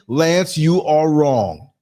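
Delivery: slow, loud, deliberate; challenging call. Shown as a demonstration. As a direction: dare him to his face. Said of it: "open your mouth and say".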